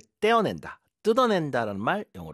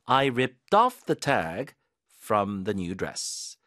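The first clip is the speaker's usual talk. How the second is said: very slow, "off" stressed; 3 semitones lower, much slower than usual. Shown as a demonstration. Teacher's stress guide on the tag sentence. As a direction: drill "off" slowly with the stress. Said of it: "강세 가이드 해드릴게요".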